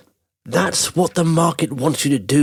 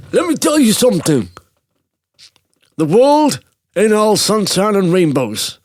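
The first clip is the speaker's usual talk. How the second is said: half-attempt the boxer's accent, stretching the words; Rocky Balboa; 6 semitones higher than usual. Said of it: "I won't do the accent".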